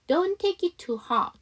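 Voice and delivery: "take it" fused inside "don't take it too hard"; linked model sentence. Shown as a demonstration. Teacher models full sentence, linked "take it". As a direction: run "take it" together as one word. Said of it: "이렇게 해주시면 됩니다".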